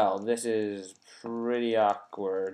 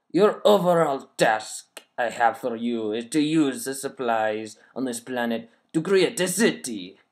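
put-on evil French accent; 5 dB louder than usual. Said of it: "I'm gonna read it in a French accent".

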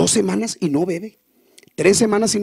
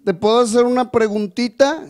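borrachito; 7 semitones higher, 3 dB louder than usual. Acted.

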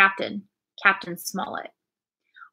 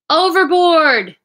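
drawn out, louder and higher; loud called-out word; 7 semitones higher, 8 dB louder, slower than usual. A narrator's reading. Captain announcing the lost mate, loud and drawn out. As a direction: call it out slowly, dismayed. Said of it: "said the captain, shaking his head".

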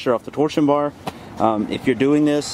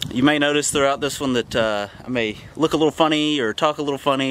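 numb mouth after the dentist; slightly slurred, numb mouth. Real, not acted. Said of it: "my mouth is still numb on this side".

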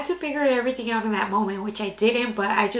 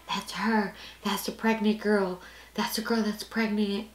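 hushed, softer gossip voice; imitated whispering; 8 dB quieter than usual. Classmates gossiping in the bathroom about the pregnant girl, hushed. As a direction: mimic schoolmates gossiping under their breath. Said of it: "people whispering".

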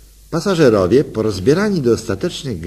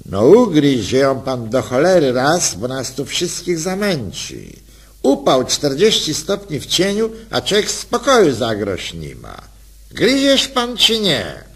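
irritated, grumbling protest; sour call. Acted. Sweaty passenger sourly scolds the flirting couple. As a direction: snap at them, fed up with the heat. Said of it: "zawołał cierpko".

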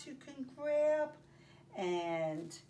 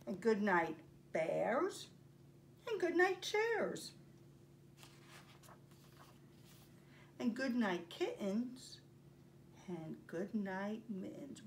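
gentle sing-song storybook reading; reading to children. Acted. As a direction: bedtime story read aloud. Teacher reads picture book aloud.

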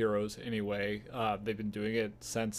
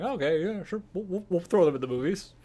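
higher-pitched, lightly imitated easy yes; breezy agreement; 8 semitones higher, 5 dB louder than usual. Studio deciding to add the shows to the movies, breezy agreement. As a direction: go along with it, pitched up, as an imagined studio. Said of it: "they're saying".

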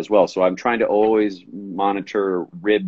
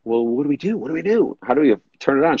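eager asking; 5 semitones higher, faster than usual. Retold or imitated. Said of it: "I'm like".

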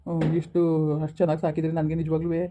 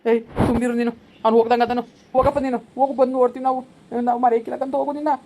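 high, raised-voice urging; firm hushing; 4 semitones higher, 4 dB louder than usual. Acted. Adult silencing the weeper and sending child off, firm hushing. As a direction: hush them and send the child on.

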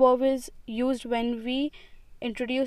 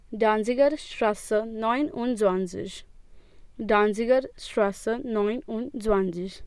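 slow model reading. Shown as a demonstration. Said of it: "Please repeat after me".

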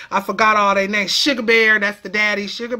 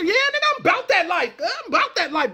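mock gangster; 7 semitones higher, faster than usual. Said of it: "You gangster?".

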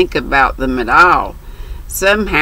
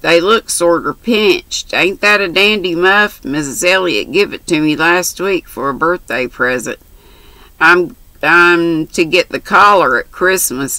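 lightly voiced brash country girl; chatty, bold young girl. Mary's dialogue voiced.

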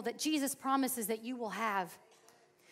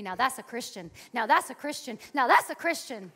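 building from steady to louder; the Lord praising her, growing louder; 7 dB louder than usual. Retold or imitated. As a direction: let the Lord's praise swell. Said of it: "I heard the Lord say to me".

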